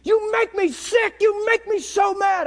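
loud, high, furious yell; retold angry yelling. Young man screaming at his Bible, furious. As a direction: hurl it at the Bible like a maniac. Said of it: "screaming like a maniac".

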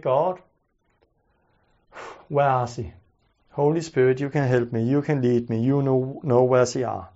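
low, hushed prayer under the breath; standing in the dark, quietly asking God for help. Retold or imitated. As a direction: pray softly to God, almost to yourself. Praying aloud while searching.

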